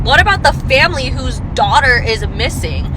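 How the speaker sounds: high, indignant disbelief; incredulous outrage. Real, not acted. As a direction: throw the claim back in outraged disbelief, pitch shooting up. Throws the other woman's claim back.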